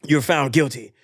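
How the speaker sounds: firm, lightly voiced judge; judge passing sentence. Judge sentences the runner, firm official delivery. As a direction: pronounce it like a formal ruling. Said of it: "the judge says".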